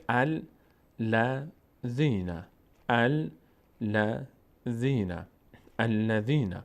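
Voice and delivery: "الذین" starting with a clear a; initial fatha. Shown as a demonstration. Teacher begins on the linking alif, opening fatha. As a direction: slowly sound out "الذین" as al-la-dhi-na.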